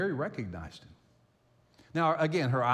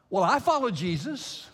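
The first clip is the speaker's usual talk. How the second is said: higher, louder imitation of a child; eager child; 7 semitones higher, 6 dB louder than usual. Small child telling grandpa whom they follow, eager and emphatic. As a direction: pipe up proudly like a little kid.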